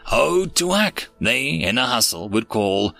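measured rhyming storyteller delivery; verse story narration. Acted. Narrator telling listeners of aliens and a stolen child, storytelling. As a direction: narrate it as a rhyming tale, lingering on each refrain.

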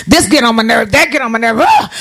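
grumbling complaint with an exasperated "ah"; mock irritation. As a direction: act out mild frustration, building to a groan. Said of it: "you're irritated".

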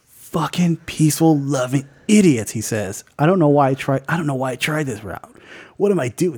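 lightly voiced frustrated Walker; a hint of William Hurt's weary mutter; William Hurt impression. Frustrated Walker grumbling to himself, light William Hurt impression. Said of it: "my William Hurt impersonation".

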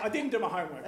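loud, laughing admission of I didn't do my homework; laughing confession. Real, not acted. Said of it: "I apologize".

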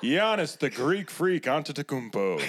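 "Antetokounmpo" said smoothly as on-te-te-KOOM-po; name pronunciation demo. Shown as a demonstration. Showing friends the name, "Antetokounmpo" smooth with a stressed koom. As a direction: show how "Antetokounmpo" runs together. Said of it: "how the hell did you pronounce that last name".

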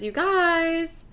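high, bubbly mock excitement; excited. Retelling an excited Taylor to the co-host, high and bubbly. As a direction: squeal it like a thrilled girl. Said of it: "She's all excited and she says".

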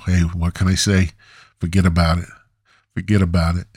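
mock Italian-American shrug; throwaway bad Italian accent; poorly done Italian accent. Shown as a demonstration. Podcaster showing off his poorly done Italian accent. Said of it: "poorly done Italian accent".

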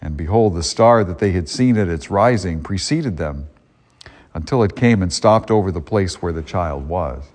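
solemn liturgical proclamation; Gospel reading. Acted. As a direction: read it like scripture at Mass.

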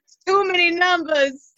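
fast panicked breathing speech; gasping with mock panic; hyperventilating. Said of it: "you're hyperventilating".

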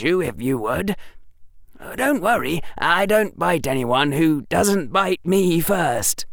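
a confident, lightly voiced boy; smug boy, polite and sly; young boy voice. Harry voiced in story.

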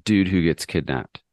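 a put-on French accent. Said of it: "try that with your French accent".

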